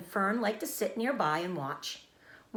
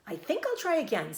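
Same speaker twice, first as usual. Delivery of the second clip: higher, bright and eager; cheerful; 8 semitones higher than usual. A narrator's reading. Pig decides to try again after falling, cheerful. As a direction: chirp it cheerfully. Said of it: "said Wilbur cheerfully".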